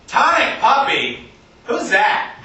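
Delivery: slow, quizzical read of a T-shirt; curious passer-by. Acted. Passer-by squinting at a band T-shirt, puzzled. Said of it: "People will come up and go".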